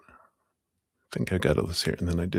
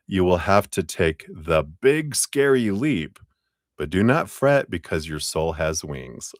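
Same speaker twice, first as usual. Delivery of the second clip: louder, measured read-aloud voice; card reading aloud; 4 dB louder than usual. Acted. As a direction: read the card out clearly and firmly. Reads the fortune card aloud.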